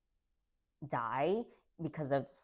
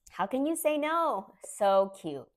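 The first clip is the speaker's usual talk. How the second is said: much higher and louder, melting over the eyes; excited gushing; 8 semitones higher, 7 dB louder than usual. Real, not acted. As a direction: gush at the puppy eyes, almost squealing. Gushing over otter puppy eyes.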